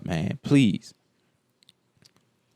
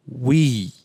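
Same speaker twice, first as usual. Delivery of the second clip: lightly voiced comedian impression; a drawn-out, hammy opener; Cat Williams; 3 semitones lower than usual. Speaking for all black people, lightly imitated comedian. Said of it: "in my Cat Williams voice".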